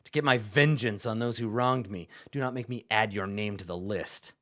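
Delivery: mild, restrained contempt from an undead zealot; a measured warning to a despised necromancer; stern revenant. Acted. Revenant rebukes necromancer, scowling.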